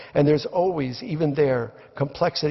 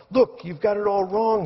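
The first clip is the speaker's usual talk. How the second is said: high, raised call to a crowd; shouting down; 7 semitones higher than usual. Retold or imitated. Brian shouts down to the mob below, high raised call. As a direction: call out over the mob, pleading. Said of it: "he shouts down to the mob below".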